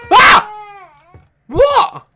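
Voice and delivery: high, loud startled yell; startled shriek. Real, not acted. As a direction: jump at the scare. Startled in game.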